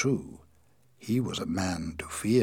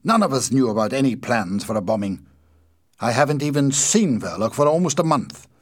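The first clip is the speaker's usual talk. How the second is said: angry protest; 4 semitones higher, 6 dB louder than usual. A narrator's reading. Ossipon continues angry protest.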